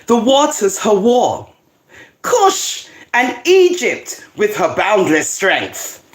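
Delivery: slow, declamatory Bible reading; scripture reading. Acted. Reads scripture aloud.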